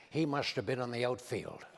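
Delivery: imitating Reagan, low and soft; a mild Reagan impression, unhurried and folksy; Ronald Reagan. Teller imitates Reagan chatting with a foreign president, low and soft. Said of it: "Reagan says".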